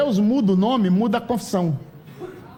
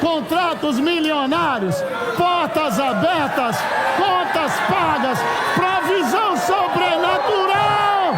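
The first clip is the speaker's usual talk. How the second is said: preaching at full force; 10 semitones higher, slower than usual. Acted. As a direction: proclaim each blessing like a rally cry.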